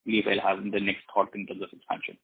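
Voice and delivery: muffled, as if through a hand. Real, not acted. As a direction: speak through a covered mouth. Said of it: "your voice is very muffled".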